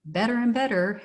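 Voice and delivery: dry sarcastic praise. Real, not acted. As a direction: say it with heavy sarcasm. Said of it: "I'm being sarcastic".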